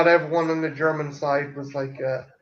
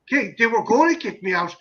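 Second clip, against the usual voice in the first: indignant retort; 3 semitones higher, 3 dB louder than usual. Retold or imitated. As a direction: imitate an indignant rant at being threatened. Acting out Peckinpah's angry reply.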